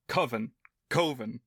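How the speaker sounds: Coven first as KUV-ən, then as COH-vən; both pronunciations of Coven. Shown as a demonstration. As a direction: give Coven both ways, short vowel then long O. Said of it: "it's pronounced Coven".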